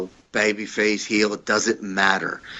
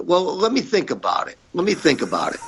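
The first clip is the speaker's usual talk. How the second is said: higher, sing-song stalling brush-off; mocking the boss; 9 semitones higher than usual. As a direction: lightly mimic a boss dodging the question. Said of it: "And he goes".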